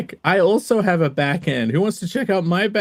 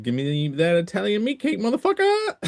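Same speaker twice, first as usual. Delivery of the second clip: jokey rising yell on the last word; playful lasagna demand; mock demand; 3 semitones higher, 3 dB quieter than usual. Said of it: "I said".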